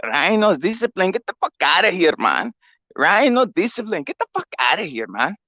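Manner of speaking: lightly imitated Canelo, pitch up at times; mock Canelo voice. Canelo calling out Ryan, lightly imitated scolding. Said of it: "Canelo said".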